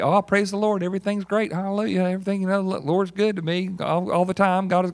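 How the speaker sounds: mock-cheerful rapid church-folk patter; breezy church small talk. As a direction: rattle off pious pleasantries on autopilot. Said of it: "That's how we normally talk".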